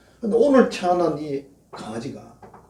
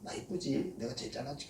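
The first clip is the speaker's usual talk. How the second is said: vain show-off; 16 dB quieter than usual. Retold or imitated. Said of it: "이쁜 척하고 그러면".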